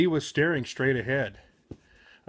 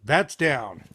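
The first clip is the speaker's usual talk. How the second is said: mild yell; 3 semitones lower than usual. Acted. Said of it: "Shaggy yelled above the wind".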